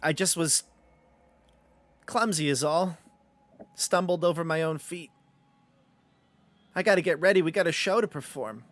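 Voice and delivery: lightly voiced clumsy puppet; a hint of harried puppet performer; marionette doll. Tangled doll explains itself to adventurer, lightly voiced puppet.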